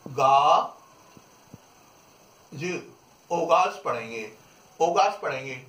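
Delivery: ओगाज with a throaty गा for "orange"; French "orange" as ओगाज; French pronunciation. Shown as a demonstration. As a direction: sound out ओगाज, गा then ज. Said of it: "ऑरेंज को पढ़ेंगे अपन ओ".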